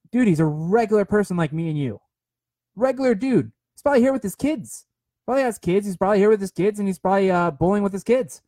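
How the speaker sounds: lightly acted disbelief at the hype; insistent retelling. Retold arguing his point.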